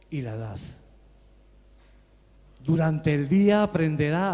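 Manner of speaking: measured poetry reading with long pauses; solemn reading of verse, phrase by phrase; poem recitation. Acted. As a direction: recite it line by line, letting silences hang. Recites the poem after introduction.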